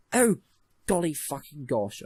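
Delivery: slow, prissy over-polite exclaim; mock posh exclamation. Shown as a demonstration. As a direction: say it like a prim aristocrat.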